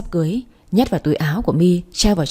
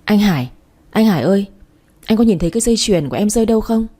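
rushed and flustered, pitched up; 3 semitones higher, faster than usual. Acted. Loan's mother rushes downstairs to ask Hải, flustered and hurried. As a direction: blurt it out in a panic. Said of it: "với vẻ mặt hớt hải".

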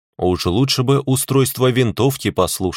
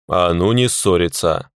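snorted scolding; 2 semitones lower than usual. Acted. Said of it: "фыркнул я".

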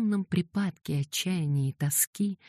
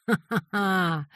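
mad laughter; 4 semitones higher, slower than usual. A narrator's reading. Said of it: "он расхохотался".

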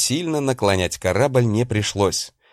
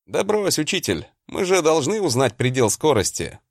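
shouting back; 6 semitones higher than usual. Acted. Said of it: "проорал я в ответ".

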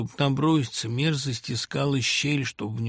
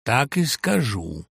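gloating; slower than usual. Acted. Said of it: "ликуя произнёс Свиридов".

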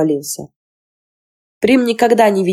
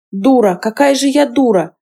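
high, bitter self-reproach; girl cursing her own stupidity; scolding herself; 5 semitones higher than usual. Acted. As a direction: berate yourself as a fool. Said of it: "корила себя Лисин".

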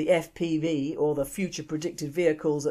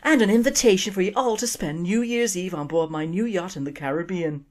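Irish daughter; 2 semitones higher than usual. Acted. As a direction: carry on sweetly in an Irish lilt. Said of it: "She takes a breath and continues".

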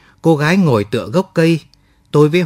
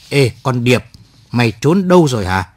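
angry yell. Acted. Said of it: "Hoành hộc lên, tức tối".

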